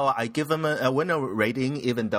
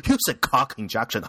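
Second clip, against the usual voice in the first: laughing. Real, not acted. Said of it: "winners of cock".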